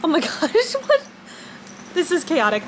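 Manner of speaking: talking around a retainer; speech thick from a retainer in the mouth; wearing a retainer. Real, not acted. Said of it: "I have my retainer in".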